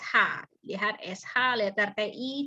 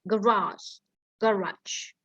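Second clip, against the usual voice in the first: British pronunciation; slower than usual. Shown as a demonstration. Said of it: "U K-nya dia bilang".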